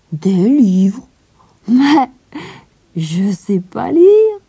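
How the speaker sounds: put-on high, loud child voice, slow at the end; surprised little girl. A narrator's reading. Heidi admitting she can't read, high and candid. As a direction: answer with open innocence. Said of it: "Heidi answers".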